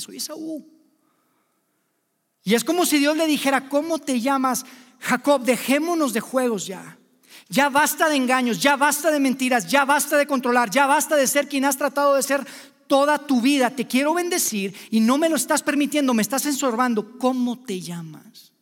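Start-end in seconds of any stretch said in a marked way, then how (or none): 0.0-0.7 false claim. Retold or imitated. Jacob lies to his father. 3.7-18.5 urgent confrontation. Acted. God confronts Jacob, preaching.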